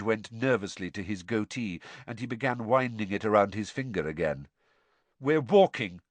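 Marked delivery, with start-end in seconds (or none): 5.2-6.0 shortly. Acted. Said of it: "Ron told Snape shortly".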